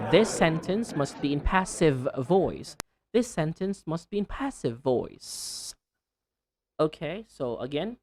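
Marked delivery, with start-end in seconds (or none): 0.1-5.8 sentence, passive and voice with endings fully sounded; careful endings at normal pace; clear final sounds. Shown as a demonstration. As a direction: finish "passive" on V and "voice" on S. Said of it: "So you should say".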